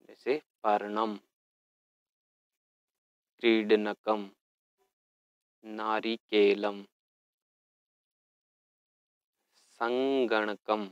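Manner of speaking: each Sanskrit word drawn out syllable by syllable; teacher modelling Sanskrit words at half speed; slow pronunciation drill. Shown as a demonstration. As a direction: say every word slowly and clearly for pupils to repeat. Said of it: "पदानि उच्चार्यत".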